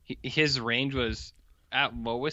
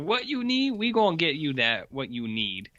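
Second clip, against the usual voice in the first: put-on slight Cajun accent; 2 semitones higher than usual. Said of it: "this slight Cajun accent now".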